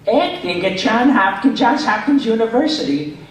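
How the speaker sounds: high, stupid character voice from the back of the throat; throat-placed stupid character voice. Shown as a demonstration. Demoing his old cartoon voice for a fan, high throaty dopey voice. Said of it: "I put this voice in the back of my throat like this".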